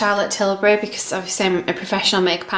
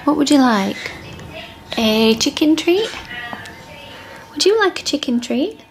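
higher, lilting dog-owner questions; coaxing pet talk; 4 semitones higher than usual. Real, not acted. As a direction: tempt a dog with a treat. Offering her dog a treat.

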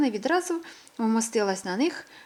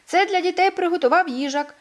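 cheerful announcement; 9 semitones higher, 7 dB louder than usual. A narrator's reading. Squirrel announcing treats.

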